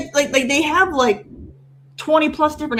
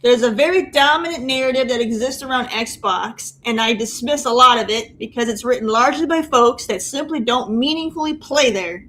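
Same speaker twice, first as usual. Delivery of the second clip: reading aloud. Shown as a demonstration. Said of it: "read this in your, uh, best, uh, John voice".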